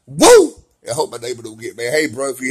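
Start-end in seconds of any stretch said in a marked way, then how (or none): 0.1-0.5 very high, loud wrestler's whoop; Ric Flair woo. Retold or imitated. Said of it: "Like Ric Flair says".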